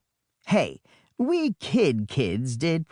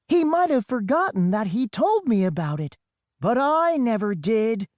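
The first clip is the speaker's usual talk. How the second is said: Storm's voice; 7 semitones higher than usual. Acted. Storm continues from jet ski.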